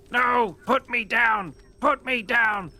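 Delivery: high, loud, desperate goblin screech; screaming goblin. Acted. Spellix screaming at the Shield Guardian to put him down. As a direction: shriek to be put down. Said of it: "Spellix is screaming".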